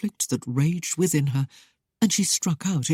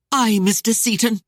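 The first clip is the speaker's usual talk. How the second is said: louder, higher bitter burst with stressed Aye; bitter ire; 6 semitones higher, 5 dB louder than usual. A narrator's reading. Lady bitterly dismissing the captain, louder and higher. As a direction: spit Aye, Mister Seaton out bitterly. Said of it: "The words burst out in bitter ire".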